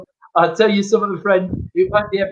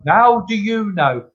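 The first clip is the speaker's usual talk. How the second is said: higher, mock indignant question; retold challenge; 4 semitones higher than usual. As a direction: challenge him as the doubting customer. Customer challenges him in joke.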